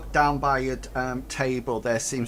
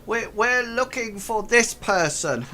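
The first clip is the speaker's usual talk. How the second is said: higher, eager goblin voice; 8 semitones higher than usual. Acted. Goblin explaining to the players who they seek. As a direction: chirp it like a small eager goblin.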